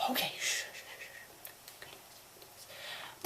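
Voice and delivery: self-shushing. Acted. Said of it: "shushing herself".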